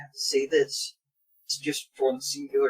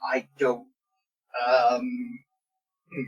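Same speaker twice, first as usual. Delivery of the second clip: halting, stuttering delivery; 6 dB louder than usual. Acted. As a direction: stumble over every word. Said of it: "Without any actual stuttering".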